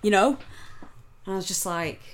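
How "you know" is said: high cackle, then much louder jeering words; mock the guy's loud laughing jeer; mocking laugh and shout. Man quoted about proper wrestling.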